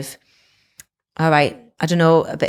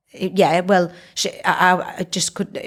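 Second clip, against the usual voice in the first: mock stammer, stuck on I; stuttering; slower than usual. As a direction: trip over the words nervously. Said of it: "he was all stuttery".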